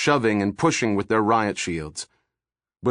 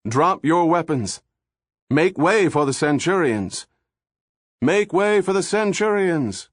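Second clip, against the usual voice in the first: exhorting cry; 7 semitones higher than usual. A narrator's reading. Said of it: "Buck cried".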